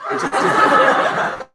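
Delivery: very slow, words dissolving into laughter; laughing. Real, not acted. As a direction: break off laughing.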